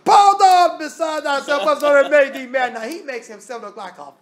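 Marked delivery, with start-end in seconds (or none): 0.0-2.7 high, loud accusing holler; hollering Festus. Retold or imitated. Preacher voicing Festus hollering at Paul, loud. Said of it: "Festus just jumps up and hollers".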